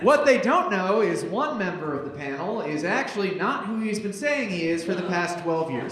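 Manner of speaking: lightly theatrical announcer delivery; scene-setting read. Acted. Host reading sketch directions to the crowd, theatrical scene-setting. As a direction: set the scene with mild showmanship.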